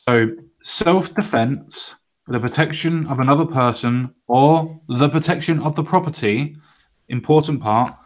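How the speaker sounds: very slow, measured news reading; emphatic read-aloud. Acted. Host reading out a South African gun law, slow and emphatic. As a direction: spell it out phrase by phrase, with weighty pauses. Reads out news item deliberately.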